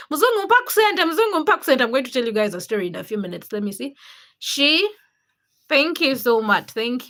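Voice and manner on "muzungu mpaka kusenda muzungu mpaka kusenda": high-pitched mimicry of callers; playful sing-out in a raised voice; street callers imitated. Mimicking what people call a Muzungu, high playful call. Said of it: "Were they like".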